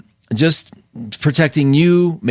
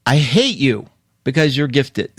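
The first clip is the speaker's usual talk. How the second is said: laughing through a mock complaint; silly mock envy. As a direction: tease with a laugh. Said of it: "In a silly world, I'd say".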